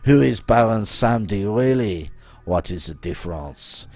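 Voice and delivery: put-on self-important French-accented mystic. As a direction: boast of yourself in a theatrical French accent. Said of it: "my accent".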